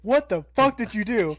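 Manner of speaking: high, startled what the fuck; shocked outburst. Retold or imitated. Alarmed at fleeing date.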